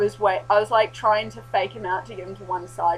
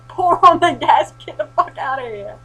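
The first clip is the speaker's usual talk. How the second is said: urging herself on; 6 semitones higher, 11 dB louder than usual. Retold or imitated. Fleeing a zombie, she loudly spurs herself on. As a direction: push yourself to run, loud and driven.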